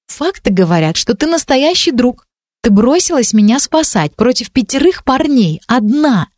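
a hint of an eager, admiring girl; light girl voice. Ранди отвечает, голос выше. (лёгкий девичий голос, чуть выше)

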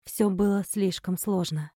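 ordinary delivery, nothing marked

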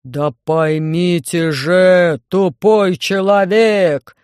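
яростный рык, громче и очень медленно; рявкни на тупого собеседника; рычит в гневе. Acted. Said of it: "зарычал в микрофон Громозека". (Громозека рычит на диспетчера в микрофон)

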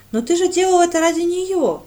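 loud, high indignant cry; girl protests to Brent, indignant and loud; indignant outburst. A narrator's reading. Радда возмущённо кричит. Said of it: "возмутилась девушка".

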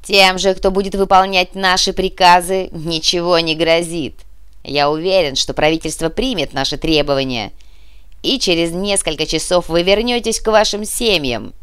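loud, measured announcement; public address to captives. Acted. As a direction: address the hostages with firm authority. Terrorist leader addresses the hostages.

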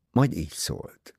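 usual speaking voice

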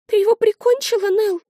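put-on high, small child's voice, scared; a young sister asking in fright; high child voice, frightened; frightened little girl.

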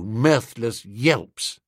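plain reading voice

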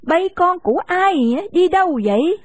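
put-on an old lady astonished at the boys; lightly voiced old woman; surprised old woman.

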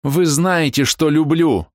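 fierce outcry. A narrator's reading. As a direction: fling it at him fiercely. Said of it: "выкрикнула она яростно". (яростно выкрикнуть, выше и громче)

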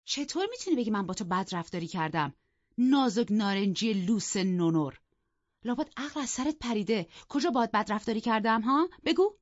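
scolding shout, rising to a high, loud بگو; angry outburst. Acted. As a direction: lash out at the sulking sister-in-law. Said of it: "دادش در آمد و گفت".

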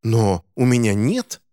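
slow, flustered protest; embarrassed protest. Acted. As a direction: defend herself, embarrassed. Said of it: "раздалось сконфуженное". (сконфуженно, медленно)

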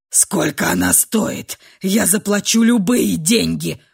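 grinding out an offer in anger; through clenched teeth. A narrator's reading. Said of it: "сжимая кулаки, процедил Ашер". (процедил, сжимая кулаки)

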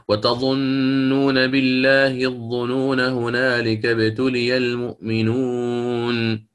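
slow chanted tajweed reading; Quran recitation. Shown as a demonstration. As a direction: draw every vowel out slowly. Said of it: "نأخذ مثال مثلًا". (تلاوة بطيئة مجودة)

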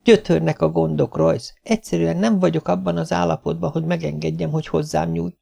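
troubled wife begging off; complaining wife. Acted. Narrator voices the complaining wife.

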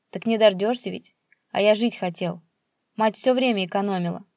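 loud defiance; father shouting back about the garage; defiant yelling. Acted. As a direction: throw it in his face.

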